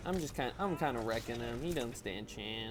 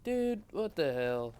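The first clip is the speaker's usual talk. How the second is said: exasperated; 4 semitones higher, 4 dB louder, much slower than usual. Retold or imitated. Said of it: "And I'm like".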